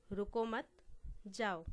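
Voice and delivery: रुको मत as one rising phrase, long pause, then जाओ; pause after मत. Shown as a demonstration. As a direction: hold the break until after मत, then जाओ falls alone. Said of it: "दूसरा उदाहरण है".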